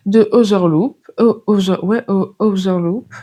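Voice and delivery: English name in a French accent; real French accent on an English title. Real, not acted. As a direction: stumble over English words with a French accent. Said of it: "Excusez-moi pour mon accent".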